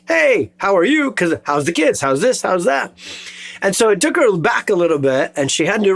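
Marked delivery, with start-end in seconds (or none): 0.1-2.9 "Hey" lifted high and rising into a breezy "how are you"; breezy high-pitched "Hey, how are you?"; casual high greeting. Shown as a demonstration. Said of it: "most people don't ever ask".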